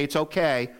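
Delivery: a brushed-off "It's okay," that shrugs the hurt away; dismissive. Shown as a demonstration. Pastor showing the wrong way to forgive, dismissive. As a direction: toss off "It's okay," as if it doesn't matter. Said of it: "We don't say".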